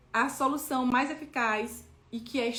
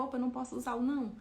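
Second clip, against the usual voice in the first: lembrete rápido; 3 dB quieter, faster than usual. Retold or imitated. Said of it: "Aí eu lembrava".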